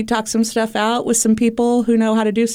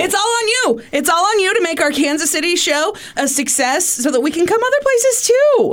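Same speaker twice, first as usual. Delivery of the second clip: guilt tripping grandma; 3 semitones higher than usual. Acted. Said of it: "guilt trip from Grandma".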